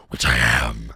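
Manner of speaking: low strained rasp; straining. Shown as a demonstration. Streamer admitting the monster voice is hard work, strained growl. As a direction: squeeze it out in a forced growl. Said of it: "It just sounds like I'm straining myself".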